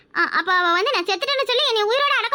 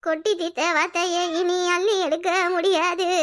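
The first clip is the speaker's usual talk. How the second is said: sorrowful lament; 3 semitones lower, 3 dB quieter than usual. Acted. Sister laments broken family.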